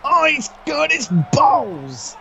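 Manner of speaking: high, slow shocked cry; shocked shout. Real, not acted. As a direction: cry it out in disbelief. Co-commentator reacts to low blow.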